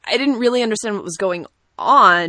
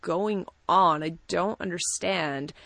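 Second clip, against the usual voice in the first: bewildered muttering; 6 dB quieter, slower than usual. Retold or imitated. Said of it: "be like".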